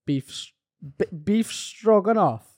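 put-on Welsh accent. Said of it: "read them out in a Welsh accent".

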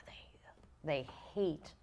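whispered confiding aside. Real, not acted. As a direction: drop to a secretive whisper. Confiding aside about Montreal.

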